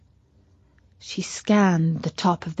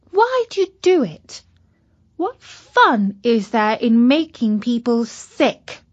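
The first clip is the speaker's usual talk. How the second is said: put-on young girl voice; 3 semitones higher than usual. Katy asks the virus.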